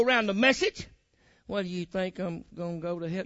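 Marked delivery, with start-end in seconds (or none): 1.5-3.2 low, soft mock question; doubter's question. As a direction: voice a doubter, quietly. Acted doubter asking the preacher.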